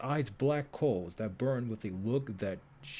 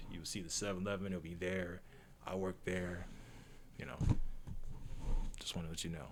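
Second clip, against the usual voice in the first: joking offhand rambling; mock casual cashier; 3 semitones lower, 4 dB quieter, faster than usual. Player joking as a cashier, mock casual. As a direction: ramble like a bored clerk. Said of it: "I'm playing".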